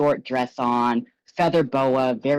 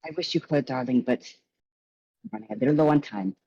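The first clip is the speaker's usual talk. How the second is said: high, gushing showman's voice; flamboyant host; 4 semitones higher, faster than usual. Acted. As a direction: greet the guests like a theatrical charmer. Gallagher sets rules, excuses himself.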